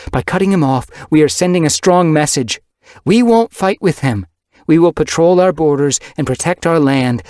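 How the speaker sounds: high, loud, forceful leader cat; commanding she-cat leader rallying the clans; stern clan leader. Acted. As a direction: lay down the law to the gathered clans. Windrunner addressing the clans.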